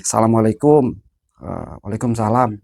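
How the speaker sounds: low, slow, measured greeting; lightly voiced tiger visitor. Tiger thanks man for tending its body, lightly voiced solemn visitor.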